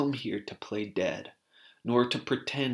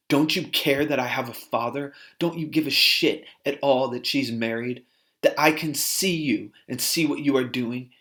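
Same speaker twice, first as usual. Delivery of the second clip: retold fury; 3 semitones higher, 5 dB louder than usual. Woman confronts doctor in rage.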